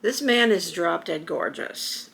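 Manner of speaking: breathless whispered awe, very slow; hushed, stunned whisper at first sight; awed whisper. Retold or imitated. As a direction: whisper it like you can't believe your eyes. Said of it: "I looked up and I went".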